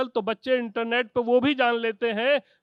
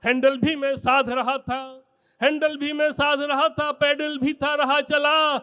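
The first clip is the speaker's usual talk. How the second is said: poem recitation; 3 dB louder than usual. Acted. Kavi sammelan poem recitation.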